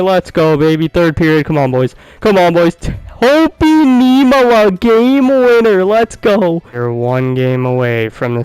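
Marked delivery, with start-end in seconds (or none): 2.2-6.6 excited yelling. Real, not acted. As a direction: celebrate the winner. Game-winning goal scored.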